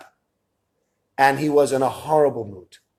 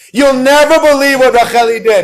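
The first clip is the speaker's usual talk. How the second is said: high, loud, thrilled phone call; gleeful parents waking grandparents; excited retelling; 8 semitones higher, 7 dB louder than usual. Retold or imitated. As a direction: burst out with the news.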